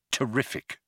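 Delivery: a flat, dry terrific; deadpan, mocking Zaphod's word terrific; sarcastic. Arthur answers Zaphod's delight sarcastically.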